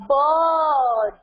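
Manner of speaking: "Bird" said clearly and carefully; model pronunciation. Shown as a demonstration. Teacher showing the class how to say "Bird", carefully. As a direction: say "Bird" slowly for pupils to copy. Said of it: "we say it like this way".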